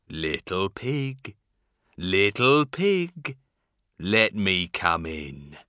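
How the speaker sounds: lightly growled wolf voice, slow; low slow growling wolf; werewolf. Acted. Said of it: "growled the wolf".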